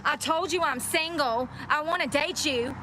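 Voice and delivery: high mock-screaming lovestruck guy; mocking a commenter. Streamer mocking a pushy commenter, high mock yell. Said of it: "Somebody's screaming at me on the internet".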